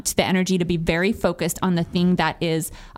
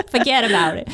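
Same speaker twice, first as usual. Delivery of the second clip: put-on New York accent; 3 semitones higher than usual. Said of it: "the worst accent ever".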